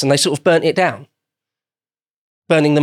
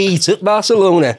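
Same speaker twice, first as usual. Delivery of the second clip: mock English pronunciation; 6 semitones higher, 4 dB louder than usual. Joking in mock anglicized pronunciation.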